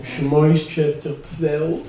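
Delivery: slow Yiddish-flavored Jewish accent on "Shmois". Shown as a demonstration. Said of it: "let me try the Jewish accent".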